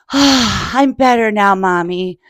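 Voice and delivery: slow, settled little voice; calmed down. Acted. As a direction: say it slowly, calm again. Trumpet calmed down.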